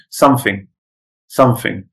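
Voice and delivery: Cockney "something" with an F for the TH; Cockney accent. Shown as a demonstration. Teacher showing students Cockney TH-to-F, Cockney accent. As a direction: say "something" like a Londoner, F replacing TH. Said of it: "T H to F".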